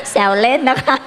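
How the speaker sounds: laughing. Real, not acted. Says she is only joking.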